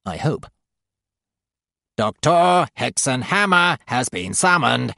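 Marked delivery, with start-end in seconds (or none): 2.0-4.9 slow, grating nurse voice. A narrator's reading. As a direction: grate it out slowly. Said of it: "grates the middle sister".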